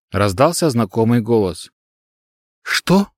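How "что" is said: high, sudden startled cry. Acted. Girl hearing her dead master speak, crying out startled. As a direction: jump at the familiar voice. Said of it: "вскрикнула Овина".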